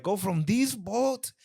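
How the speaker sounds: put-on high, slow, botched British accent; childish mock British accent; fake British accent. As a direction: overdo a kid's bad British accent. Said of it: "me and my cousin used to do that accent".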